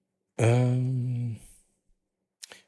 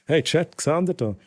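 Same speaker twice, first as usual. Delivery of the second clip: higher, brighter call to chat; excited call; 6 semitones higher than usual. Real, not acted. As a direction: call out to the viewers. Calling out to chat.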